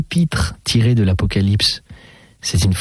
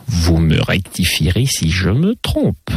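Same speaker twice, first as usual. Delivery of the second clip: lightly voiced lady, teasing and sing-song; mademoiselle enjouée; 2 semitones lower than usual. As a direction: play a chatty lady with swooping intonation. (demoiselle légèrement taquine, intonation chantante)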